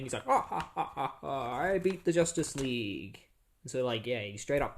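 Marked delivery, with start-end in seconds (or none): 0.3-3.2 imitated villain laugh. Brimstone laughs over the beaten Justice League, mock triumph. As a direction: laugh like a cartoon villain boasting. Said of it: "He's, like, laughing".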